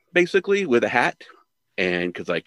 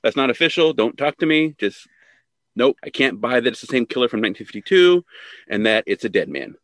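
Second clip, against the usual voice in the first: higher, louder brush-off; dismissive editor; 5 semitones higher, 3 dB louder than usual. Retold or imitated. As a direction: wave him away, refusing to listen. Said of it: "He's like".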